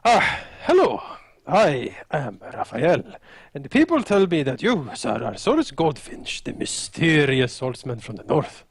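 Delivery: lightly voiced formal fighter with swooping greeting; courteous Raphael. Plays Raphael greeting the swordsman.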